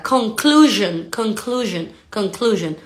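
"conclusion" with a buzzing zh sound. Shown as a demonstration. Teacher drilling learners on the word, S like Z. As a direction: voice the s in "conclusion", each take falling. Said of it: "como si fuera una Z".

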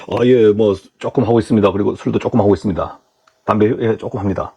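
low, humble, hesitant admission; sheepish candidate. Acted. Candidate admitting to interviewer a little drinking and smoking, sheepish.

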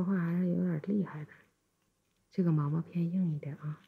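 gentle ear-cleaning whisper. Acted.

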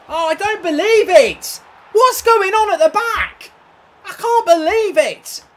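loud, slow, raging yell at the game; furious shout. Real, not acted. Gamer yelling at the game over scripted goals, furious shout. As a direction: bellow in disbelief at the screen.

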